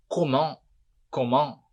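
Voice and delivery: "comment" as ko-mon, no T; "comment" with the final T dropped; silent T. Shown as a demonstration. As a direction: end "comment" on the nasal vowel. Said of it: "No comment, não fala o T".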